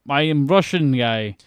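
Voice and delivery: slow, lightly put-on Russian accent. Bond introduces himself to the doctor, mock Russian accent. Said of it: "puts on his Russian accent".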